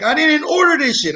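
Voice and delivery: imitating a high-pitched protest; high mimicked whine of protest; high squeaky voice. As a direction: squeak out a mock-indignant denial. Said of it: "this high squeaky voice".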